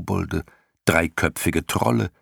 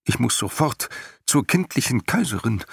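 whiny; 6 semitones higher than usual. A narrator's reading. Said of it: "sagte er weinerlich".

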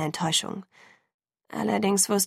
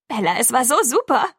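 put-on high, loud girlish gush; gushing excitement; 5 semitones higher, 6 dB louder than usual. A narrator's reading. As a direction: burst out with it, bubbling over. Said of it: "schoss es aus ihr heraus". (begeistert herausgeplatzt)

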